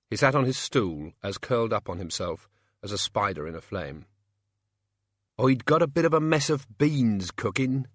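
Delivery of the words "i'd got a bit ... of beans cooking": lightly voiced mumbling old peasant; humble old man, understated mumble. A narrator's reading. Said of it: "he mumbled".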